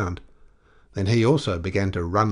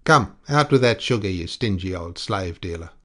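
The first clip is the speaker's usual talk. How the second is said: insolent; 3 dB louder than usual. Acted. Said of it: "smiling with marked insolence".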